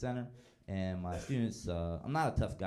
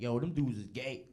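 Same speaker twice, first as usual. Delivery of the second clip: mock teen student; 3 semitones higher than usual. Students quoted on vampires.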